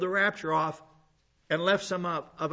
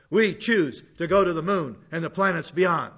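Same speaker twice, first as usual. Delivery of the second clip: louder presidential speech, phrase by phrase; John Kennedy; 6 dB louder than usual. Retold or imitated. Pastor quoting the president's moon speech from a song, louder oratory. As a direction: lightly imitate a president's rousing, emphatic speech. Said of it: "they have Kennedy's voice".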